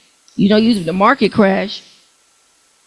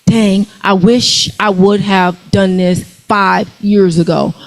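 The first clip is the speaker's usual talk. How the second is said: future regret; 3 semitones lower, slower than usual. Retold or imitated. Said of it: "you're gonna say".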